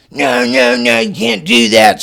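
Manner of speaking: high, loud panicked no; alarmed protest. Retold or imitated. Friend panics and begs him not to do it, high and loud.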